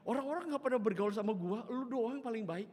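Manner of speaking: high, loud mock Betawi voice; Betawi old woman. Oma praises the pastor as kindest neighbour, high blunt Betawi voice. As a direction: imitate a blunt Betawi granny. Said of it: "Jadi ngomong kayak gitu".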